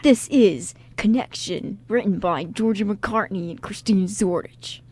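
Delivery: radio show announcer; mildly dramatic station ident and credits. Acted. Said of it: "My deep dramatic voice".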